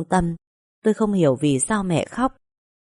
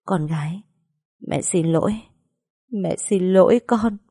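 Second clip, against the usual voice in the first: a touch of tearful anguish, lightly voiced; mild choked sorrow, pleading for forgiveness. A narrator's reading. Mother apologizing to her daughter, understated tearful anguish. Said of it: "giọng đầy thống khổ".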